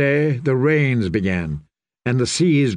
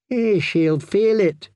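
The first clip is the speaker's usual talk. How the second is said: ashamed thought; 7 semitones higher, slower than usual. A narrator's reading. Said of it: "he thought, ashamed".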